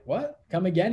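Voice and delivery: high, startled what followed by a disbelieving ask; jaw-drop disbelief; stunned disbelief. Retold or imitated. Son hearing his dad earns as much, stunned and incredulous. Stunned at equal-pay news.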